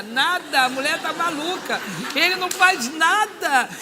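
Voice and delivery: high, loud retold indignation; exasperated complaint. Fuming that the husband does nothing, exasperated complaint. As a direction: complain loudly in comic disbelief.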